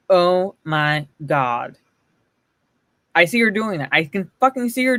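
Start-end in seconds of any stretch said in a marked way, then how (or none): 0.1-1.8 slow lightly voiced Valley Girl. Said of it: "like, a Valley Girl voice coming from her".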